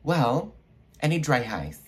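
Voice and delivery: high, urgent imitation of the boss. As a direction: mimic a boss making a sudden demand. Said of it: "He's like".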